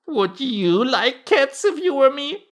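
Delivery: very high, loud indignant mouse; shrill, passionate. A narrator's reading. The mouse challenges Alice about cats, shrill and passionate. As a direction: squeal the question slowly in outrage. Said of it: "in a shrill, passionate voice".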